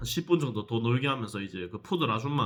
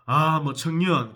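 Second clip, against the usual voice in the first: drawled greeting; 2 semitones higher, 5 dB louder, much slower than usual. Retold or imitated. Imitating gym man's casual greeting.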